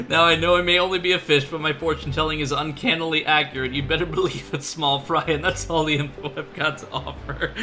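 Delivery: quick pseudo-Irish fish boasting; hint of a pseudo-Irish fortune-teller, barely holding laughter; held-together pseudo-Irish accent. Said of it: "a pseudo-Irish accent".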